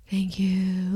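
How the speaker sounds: soft, acted-out sigh of relief; relieved. Imitating the relieving feeling of getting sugar, softly relieved. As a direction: mimic grateful relief, quietly. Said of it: "it's, like, a relieving feeling".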